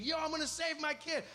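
mild mock-heroic declaration; a hint of a dad psyching himself up; reluctant dad. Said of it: "you know the dad is thinking".

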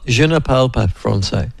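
schoolboy French phrase shown off. Shown as a demonstration. Host showing Josh his French, in schoolboy French. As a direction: recite a stock French phrase as a learner. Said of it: "with my schoolboy French".

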